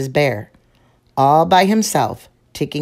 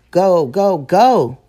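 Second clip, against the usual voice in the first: louder, a bit of playful urging; cheering on; 4 semitones higher, 7 dB louder, slower than usual. Acted. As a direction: send him off with a happy push. Mama cheering Sam on.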